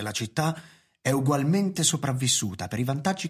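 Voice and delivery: con tono fermo e oratorio davanti al consiglio, più forte; discorso solenne. Acted. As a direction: parla alto e deciso, come un'arringa. Discorso di Webster al consiglio comunale. (Webster si rivolge ai consiglieri, con voce alta e solenne)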